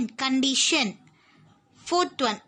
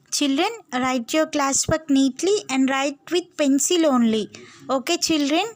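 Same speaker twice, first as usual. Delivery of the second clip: louder, calling out to the whole class; raised classroom voice; 3 dB louder than usual. Real, not acted. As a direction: project to the back row.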